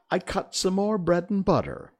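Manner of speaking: high, loud testimony; high-pitched, anxious account; nervous Hatter. A narrator's reading. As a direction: blurt out the detail in a high voice.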